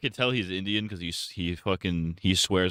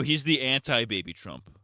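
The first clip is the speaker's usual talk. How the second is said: ordinary talk, nothing marked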